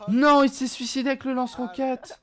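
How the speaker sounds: high loud shocked cry. Real, not acted. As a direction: cry out in disbelief. Teammate blows himself up.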